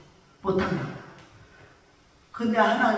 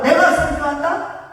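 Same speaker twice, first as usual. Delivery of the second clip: mock self-importance; 4 semitones higher, 5 dB louder than usual. Mocks self-credit as delusion.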